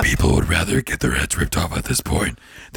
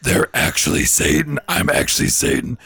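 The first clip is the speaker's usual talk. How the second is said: Satan voice; 3 semitones higher than usual. Retold or imitated. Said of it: "that voice".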